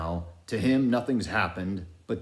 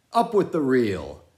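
command; 6 semitones higher, 8 dB louder than usual. A narrator's reading. Ahab orders log heaved.

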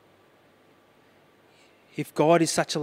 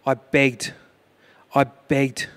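louder repeated plea; emphatic plea; 6 dB louder, much slower than usual. Real, not acted. Father begging for his daughter's life, louder. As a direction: press the begging hard.

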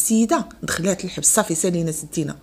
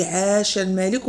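slow, mocking cheer, lightly voiced; sarcastic; slower than usual. Mocking the woman who says it sarcastically. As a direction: say it with a sneer, half-hearted. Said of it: "وبتهكم".

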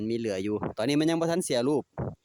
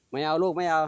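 scolding pet; 5 semitones higher, 4 dB louder than usual. Real, not acted. Telling pet no.

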